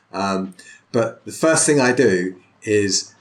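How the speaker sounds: ordinary delivery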